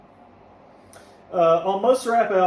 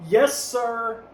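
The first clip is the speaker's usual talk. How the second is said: exclaimed title; 4 semitones higher, 3 dB louder than usual. Real, not acted. Reads exclamatory song title.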